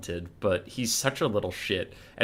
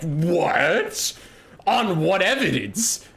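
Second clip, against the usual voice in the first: mock innocent; 6 semitones higher, 3 dB louder, much slower than usual. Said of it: "And you're like".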